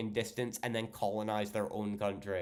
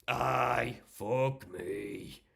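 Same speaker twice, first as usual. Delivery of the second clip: a sighing, broad Geordie "Aye, fuck me"; Geordie accent; much slower than usual. Shown as a demonstration. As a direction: lean into the Geordie vowels. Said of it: "what kind of accent do you have?".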